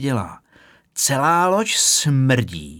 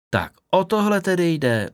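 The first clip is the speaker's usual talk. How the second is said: smiling; 7 semitones higher than usual. A narrator's reading. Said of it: "usmála se".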